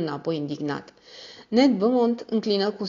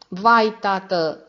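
slow plaintive wail; whiny sigh; 3 semitones higher, 6 dB louder, much slower than usual. A narrator's reading. Daughter pleads with her father, slow plaintive sigh. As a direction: sigh it out, near tears. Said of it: "suspină Janet Harry cu glas plângăreț".

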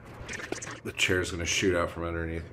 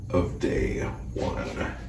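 whispered; much slower than usual. Real, not acted. Turned side view whisper.

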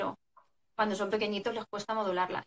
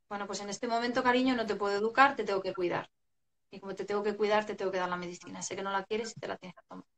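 calm, tender parent; faster than usual. Retold or imitated. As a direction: soothe the child while holding the line. Parent calmly insisting on medicine.

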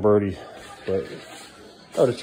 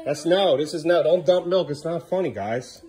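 higher, firm parental scolding; 6 semitones higher, slower than usual. Real, not acted. Dad scolding kids over milk.

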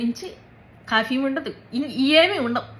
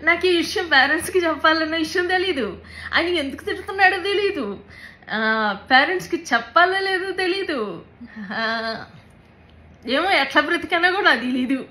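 higher, strained, near tears; pushing through a painful memory; real distress; 5 semitones higher than usual. Real, not acted. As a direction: voice climbing high with real hurt. Recalling abuse, voice rising in distress.

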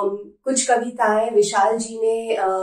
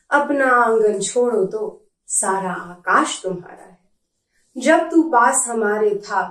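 measured verse with pauses between lines; poem recitation. Acted. Reading favourite poem to viewers, measured poetry recitation. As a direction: recite it line by line, letting each one land.

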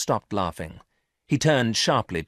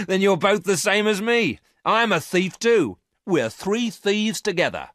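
higher, louder gleeful voice; 9 dB louder than usual. Acted. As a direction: crow it out with delight. Varon laughing, amused.

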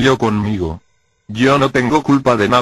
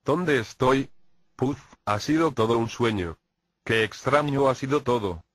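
soft, dazed waking voice; groggy just woke; 6 dB quieter than usual. Acted. Despierta de una pesadilla. (adormilado y bajito)

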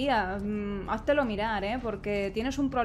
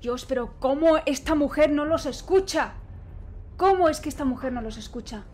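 exasperated disbelief; 2 semitones higher, 7 dB louder than usual. Real, not acted. Exasperated at her character's deafness.

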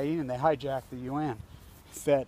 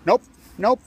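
retold curt refusal; 6 semitones higher, 10 dB louder than usual. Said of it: "guard reply".

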